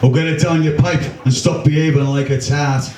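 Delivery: a hint of a mocking Liverpool lad; lightly voiced Scouse jeer; young Scouser accent. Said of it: "young Scousers these days don't seem to talk like the rest of us".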